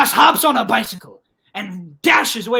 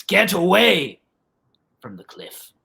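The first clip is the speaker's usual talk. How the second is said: put-on grizzled old man; 3 semitones lower than usual. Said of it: "And the old man says".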